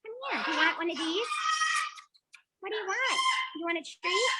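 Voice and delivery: high, coaxing pet voice. Real, not acted. Coaxing a bird.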